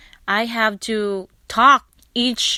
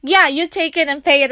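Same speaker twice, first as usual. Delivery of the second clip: eager insisting; 4 semitones higher, 4 dB louder than usual. Retold or imitated. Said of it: "It's like".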